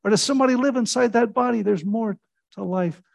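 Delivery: high, loud, searching challenge; challenging questions. Retold or imitated. Preacher retelling how he challenged the students, intense. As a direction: corner them with the question. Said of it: "I said".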